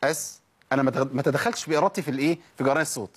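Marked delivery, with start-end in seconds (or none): 0.0-0.4 "أس" with a short hiss left to die by itself; brief, measured hiss on "أس"; natural seen length. Shown as a demonstration. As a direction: let the s of "أس" fade unforced. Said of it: "أسيب الصوت ينقطع لوحده".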